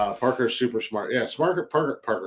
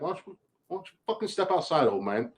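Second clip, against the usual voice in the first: tough challenge; 6 semitones higher, 4 dB quieter, faster than usual. Retold or imitated. Imagined daughter challenging dad.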